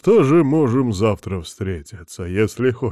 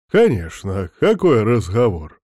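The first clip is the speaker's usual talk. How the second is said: upbeat; 4 dB louder than usual. Acted. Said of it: "говорит он бодро".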